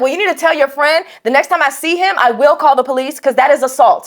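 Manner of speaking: indignant reenacted warning; retold stern telling-off. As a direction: lay down the law emphatically. Retold stern lecture to the kid.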